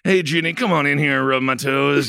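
lightly voiced weary husband; husband calling his wife. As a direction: play a hint of a worn-out husband wheedling his wife. Acting out Ginny's weary husband at home.

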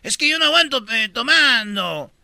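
put-on Argentine accent. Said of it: "en Argentina dice".

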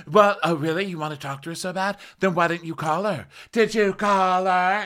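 high, snippy mock challenge; sarcastic retort. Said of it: "she's like".

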